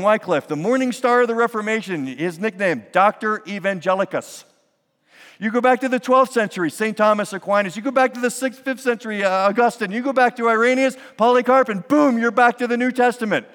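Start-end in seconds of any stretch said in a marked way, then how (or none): 5.4-13.5 high, loud, driving sermon climax; fervent preaching. Acted. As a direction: stack each century with mounting fervor. Rapid-fire history climax.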